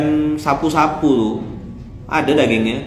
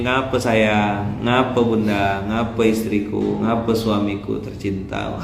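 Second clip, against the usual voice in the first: lower, softer and slow, tender; sweet wife; 7 semitones lower, 4 dB quieter than usual. Pretend. Wife sweetly asking her husband what is wrong, tender. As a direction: ask sweetly, as if to melt him.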